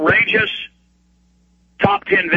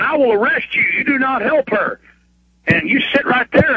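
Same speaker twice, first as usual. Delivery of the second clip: higher mock stern cop; mock cop orders; 5 semitones higher than usual. Cops ordering EMTs off the patient, mock stern. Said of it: "they start saying".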